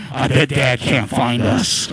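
slow, low stage whisper; drawn-out, hushed-style conspiring voice; hiding kid. Acted. Voicing hiding kids talking.

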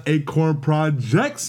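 slow, drawn-out mock holler; mock yell, each word dragged out; imitated rapper yell. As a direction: stretch it out like a hype shout without extra volume. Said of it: "you got him just yelling".

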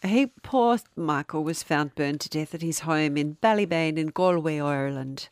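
a light Irish lilt; lightly Irish storyteller; Irish accent. Acted. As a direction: tell it in a mild Irish accent. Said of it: "It's not a bad Irish accent".

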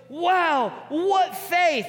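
Jesus amazed by the friends' faith, a bright high wow. Retold or imitated. Jesus marvels at their faith.

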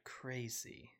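slow whispered aside; whispering. Pretend. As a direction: whisper it slowly to the audience. Joking aside to stream viewers.

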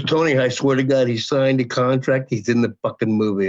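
low-pitched retold insistence; imitating an agent's sober promise; earnest assurance. Agent repeats her assurance, retold.

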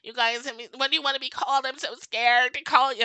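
mock helpless lament; mock woe-is-me. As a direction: mimic someone making a fuss of their fear. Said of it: "it's this whole "woe is me".

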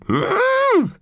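high cat meow; a squeaky little meow; mewing cat sound. Acted. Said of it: "went Ortrud".

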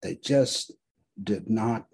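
measured, solemn recitation; dramatic reading. Acted. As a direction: read it like a memorial poem.

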